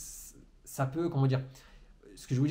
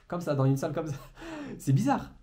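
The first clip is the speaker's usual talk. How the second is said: laughing between phrases, pitch jumping up; amused laughing; 3 semitones higher than usual. Real, not acted. Trainer talking alone to a camera in a room, amused. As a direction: laugh at how odd this is.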